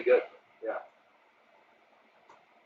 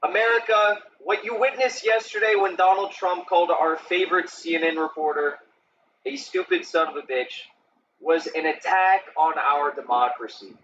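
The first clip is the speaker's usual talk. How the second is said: mock Democrat speech; 5 semitones higher than usual. Streamer parodies a Democrat in Congress, a touch of grandstanding. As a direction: play a pompous politician addressing the nation, half-mocking. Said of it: "I could be like a Democrat in Congress".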